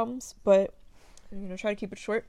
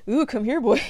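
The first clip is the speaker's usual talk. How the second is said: playful seductive come-on; 3 semitones higher, 8 dB louder than usual. Pretend. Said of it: "to, like".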